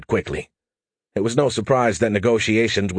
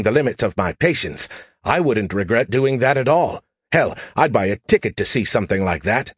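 lightly raised, quick, cocky AI voice; brash AI pestering Joe for help; cocky alien AI. Acted. Skippy explains smackdown.

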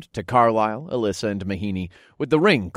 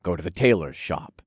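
gentle reassurance; 3 dB quieter than usual. Acted. God consoles widow.

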